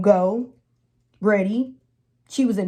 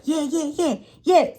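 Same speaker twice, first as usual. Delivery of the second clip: laughing yeah; 6 semitones higher than usual. Retold or imitated. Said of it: "her sister was like".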